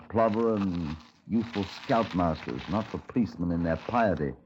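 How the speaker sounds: measured storyteller's voice, wry and dry; radio drama narration. Acted. Detective narrating his trek after the suspect, wry storytelling. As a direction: narrate the walk like a weary detective.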